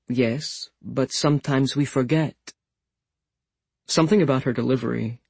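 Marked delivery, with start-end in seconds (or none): 0.1-2.5 put-on Russian accent. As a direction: deliver it like Russian folk wisdom. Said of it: "the Russian ba-ba wisdom of it".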